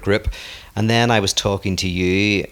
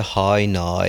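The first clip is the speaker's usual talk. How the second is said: "How now" in Northern Irish vowels; Northern Irish accent. Shown as a demonstration. Teaching the co-host the phrase, Northern Irish accent. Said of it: "Remember what I taught you?".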